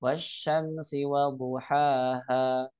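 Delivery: duhaha with the final ha held just two beats; two-beat madd. Shown as a demonstration. Teacher giving students the final correct version. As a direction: stretch the last ha of duhaha two counts only. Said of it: "Cukup dua harokat aja".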